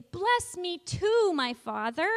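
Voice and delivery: teacher demonstrating the loud plea. Shown as a demonstration. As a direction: cry it out, hand on heart. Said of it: "Really loudly say".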